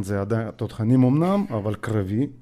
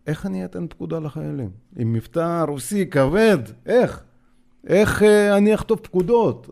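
higher and louder, mock disbelief; incredulous outburst; 5 semitones higher, 4 dB louder than usual. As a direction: throw up the question as if it's absurd. Laughing at officer offer. (קריאה נדהמת, גבוהה וחזקה יותר)

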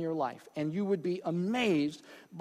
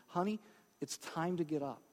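tender; 7 dB quieter than usual. Retold or imitated. Jesus gently wakes the girl.

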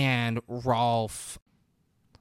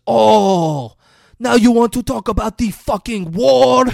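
high, loud sarcastic yell; hammed-up outburst; mock outraged yell; 11 semitones higher, 11 dB louder than usual. Retold outburst at the party.

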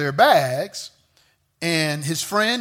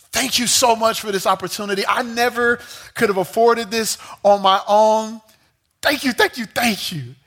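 rushed, gushing thanks; Adam thanking the rich man in a rush, excited and grateful; excited gratitude; 4 semitones higher than usual. Retold or imitated. Young man rushing in to thank the rich man, eagerly. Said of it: "Adam got excited".

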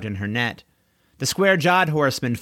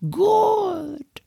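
high, sing-song coo of good; soothing. Acted. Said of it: "in a soothing tone".

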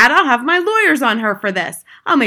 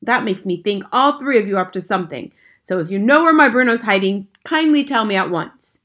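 louder, indignant father; angry tirade; 4 semitones higher, 7 dB louder than usual. A narrator's reading. Father accusing grandmother of a nasty trick, loud and angry. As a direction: lay into them with mounting indignation.

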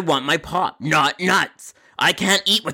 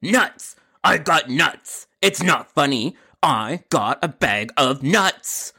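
indignant customer; much slower than usual. Acted. Customer insists, not amused.

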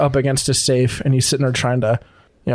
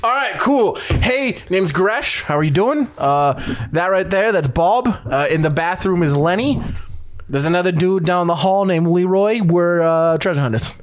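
friendly orc thief; 2 semitones higher than usual. Acted. Orc thief introduces his crew to the elf, breezy. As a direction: introduce the crew like nothing's wrong. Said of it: "the guy behind the desk like".

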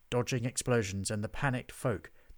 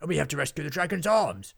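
loud, insistent exclamation; urgent rallying; 5 semitones higher, 7 dB louder than usual. A narrator's reading. Henry urges saving the inn, loud and urgent. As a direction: push the rescue with alarm. Friends urgent after fleeing.

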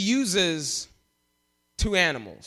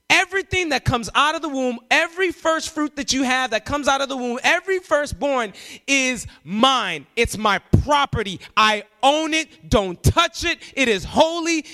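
emphatic declaration; 4 semitones higher than usual. Retold or imitated. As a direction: lay down the law, not optional. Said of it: "I wish I could tell you how emphatic".

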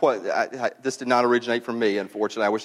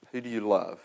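softer, lower, searching question; hushed repeated question; 6 semitones lower, 7 dB quieter than usual. Shown as a demonstration. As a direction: let the question sink in quietly. Question repeated softly after pause.

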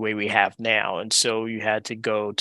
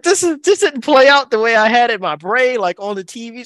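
retold dismay; 10 semitones higher, 7 dB louder than usual. Retold dismay at being refused.

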